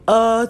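"äh" as a held, impure vowel sound; muddy vowel demo. Shown as a demonstration. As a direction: sound out "äh" as an example of an unlovely vowel. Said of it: "es sind korruptierte Vokalen".

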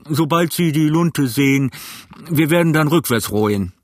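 brisk captain barking orders; gruff sea captain. A narrator's reading. Captain voiced at length.

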